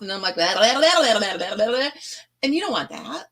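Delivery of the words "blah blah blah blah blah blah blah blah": mock tongue-trip on "Blah, blah, blah"; tongue-tied gibberish. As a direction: run "Blah, blah, blah" together as garbled babble, tripping over the syllables. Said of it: "totally trip over my mouth".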